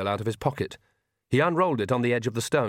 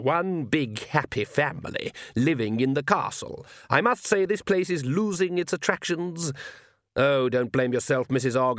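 lightly voiced suave villain, lingering on phrases; mock courtesy from a confident tyrant; taunting vampire Count; 2 semitones higher than usual. Count mocks his captives, with mild silky menace.

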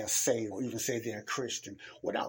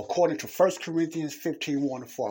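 "According to First Corinthians fifteen" raised and loud; emphatic scripture citation; 4 semitones higher, 4 dB louder than usual. Real, not acted. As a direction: drive home "First Corinthians fifteen", easing off on "one and four". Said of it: "I put emphasis on that".

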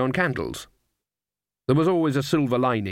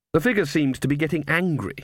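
usual speaking voice

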